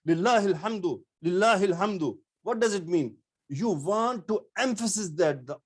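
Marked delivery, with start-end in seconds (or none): 0.1-2.2 mildly happy, stressing lillahi; happy emphasis. Shown as a demonstration. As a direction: lean lightly on lillahi with joy. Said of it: "You are saying with the happy".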